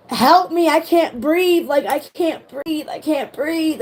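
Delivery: begging the niece to help, can't get air; panicked plea. Retold or imitated. On the ride, pleading to her niece, panicked and breathless. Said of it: "I'm trying to pat my niece beside me".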